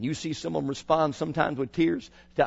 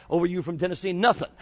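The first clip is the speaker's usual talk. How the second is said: Southern accent. Shown as a demonstration. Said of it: "That's the way they say it down south".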